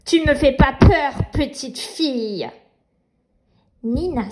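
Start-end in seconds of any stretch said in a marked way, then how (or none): 0.0-2.5 sneering panto villain. Acted. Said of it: "ricane le méchant rêve".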